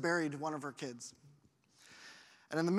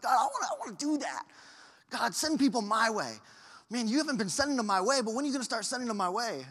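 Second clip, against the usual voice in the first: retold pleading prayer; 5 semitones higher than usual. Retold impatient prayer to God.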